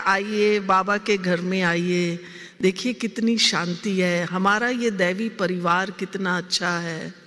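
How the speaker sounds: showing off the family to outsiders, sweetly; sweet welcoming invitation. Retold or imitated. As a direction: coax a visitor in sweetly. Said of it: "दूसरों को हम कहते हैं".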